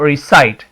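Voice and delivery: रिसाइट, second syllable held and emphasized; stressed syllable. Shown as a demonstration. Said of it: "आई को stress दे रहे हैं आप".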